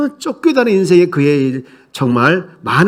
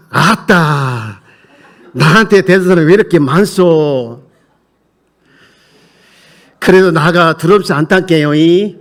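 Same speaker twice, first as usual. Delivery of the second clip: Jeolla dialect reading. Shown as a demonstration. Pastor reads scripture to congregation in Jeolla dialect, hammed up. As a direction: read the verse in a thick Jeolla accent. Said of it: "제가 느낀 대로 한번 읽어볼 테니까".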